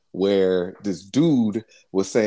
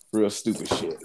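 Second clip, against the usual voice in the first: ordinary talk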